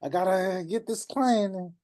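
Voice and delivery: high, panicky rushed pleading; nervous newbie. Retold or imitated. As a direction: play the desperate beginner who needs the money. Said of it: "you start getting nervous".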